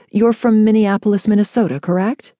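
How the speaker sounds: brisk polished check-in question; businesslike clerk confirming details; professional voice. Acted. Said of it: "her most professional voice".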